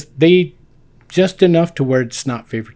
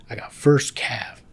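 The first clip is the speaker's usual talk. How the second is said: awed whisper; slower than usual. Retold or imitated. Thrilled by his orders.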